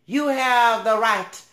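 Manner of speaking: slow, high, loud preacher-style quote; lightly voiced sermon rising on free at last; preaching like Martin Luther King. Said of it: "as what Martin Luther King said".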